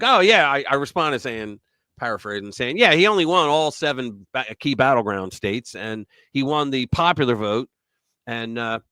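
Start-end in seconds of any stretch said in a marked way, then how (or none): 0.0-0.5 sarcastic oh yeah. Retold or imitated. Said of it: "And I was like". 0.5-7.7 opinion read. Acted. Reading commentary script.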